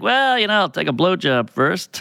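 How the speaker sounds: put-on cocky teenager. Teenage self answering the older woman, mildly cocky. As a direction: imitate a teen acting sure of himself. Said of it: "I was, like, a cocky sixteen-year-old".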